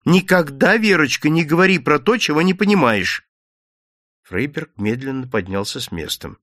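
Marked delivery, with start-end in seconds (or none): 0.0-3.3 put-on firm, louder scolding of the girl; stern rebuke. A narrator's reading. Mother sternly cuts off her daughter. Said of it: "мать строго перебила её".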